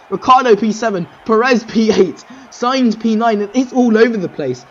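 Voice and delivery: strained, nearly gone voice; losing voice. Real, not acted. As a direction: voice wearing thin from shouting. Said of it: "I'm almost losing my voice".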